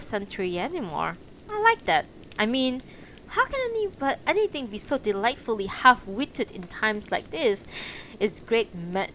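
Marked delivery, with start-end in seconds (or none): 1.5-7.7 delighted enthusiasm. Acted. Haraguchi enthusing about drum.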